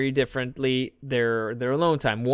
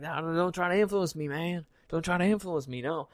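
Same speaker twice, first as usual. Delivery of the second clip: mock refusal; 3 semitones higher, 8 dB quieter than usual. Refusing friends' advice in put-on voice.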